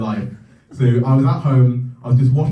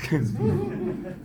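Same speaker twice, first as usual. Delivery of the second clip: laughing squeak; 12 semitones higher, 9 dB quieter than usual. Real, not acted.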